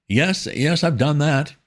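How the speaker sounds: high, slow, fumbling toff; flustered young gentleman. A narrator's reading. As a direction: stammer like a rattled young gent. Wooster voiced in story.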